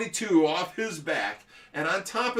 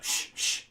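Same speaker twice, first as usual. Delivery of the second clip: sharp "shh, shh"; shushing. Retold or imitated. Dad hushing his kid in the woods, shushing. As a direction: imitate a sudden hush.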